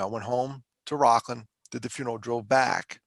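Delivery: usual speaking voice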